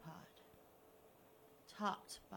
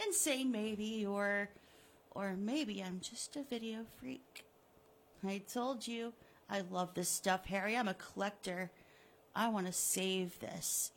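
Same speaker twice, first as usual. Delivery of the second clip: gloating villain; 4 dB louder than usual. Acted. Killer taunting the buried Harry, smug and mocking. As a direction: taunt him like a cat with a mouse.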